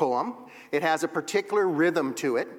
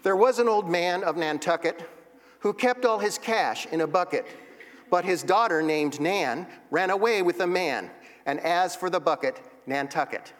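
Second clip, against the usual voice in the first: rhythmic limerick reading. Shown as a demonstration. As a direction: recite with a bouncing limerick beat. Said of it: "see the rhythm and the rhyme".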